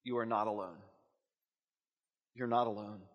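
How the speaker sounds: low, soft and unhurried; quiet reassurance. Real, not acted. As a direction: reassure them gently, dropping the voice. Reassures listeners after the note.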